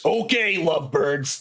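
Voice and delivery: high, half-hearted call to attention; mild acted yell. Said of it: "like, yells".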